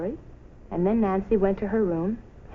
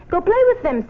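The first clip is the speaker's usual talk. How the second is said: encouraging mother; 10 semitones higher, 6 dB louder than usual. A narrator's reading. Mother urging cheerfully.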